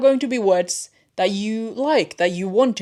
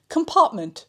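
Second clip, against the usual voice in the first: laughing at a slip; 8 semitones higher, 4 dB louder than usual. Real, not acted.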